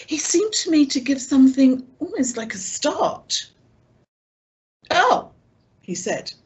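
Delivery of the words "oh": a loud startled oh; quite loud. A narrator's reading. Silver caught off guard, quite loud oh. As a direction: burst out with it, louder. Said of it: "quite loud".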